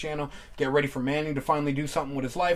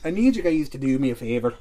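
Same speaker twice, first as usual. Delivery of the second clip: lightly put-on Scottish burr; mock Scottish accent. Host trying the line, mock Scottish accent. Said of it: "I'm going Scottish now".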